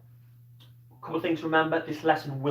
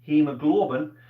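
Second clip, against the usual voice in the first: Scottish accent; 4 dB louder than usual. Shown as a demonstration. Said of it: "let's try and say it".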